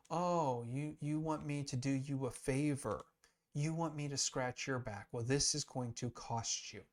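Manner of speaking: lightly mock the Pharisees' request, then state the price; scheming Pilate. Teacher voicing Pilate bargaining with the Pharisees, lightly sly. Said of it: "where he's saying to the Pharisees".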